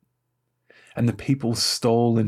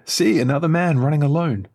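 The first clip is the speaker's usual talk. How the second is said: raised, louder watchman's call; 6 semitones higher, 5 dB louder than usual. A narrator's reading. Watchman calls down to the gate, calling out. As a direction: call it out high and loud, as a lookout would. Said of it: "the watchman called to the gate".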